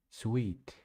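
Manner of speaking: sweet for suit; wrong try. Shown as a demonstration. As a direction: says sweet instead of suit. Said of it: "not sweet".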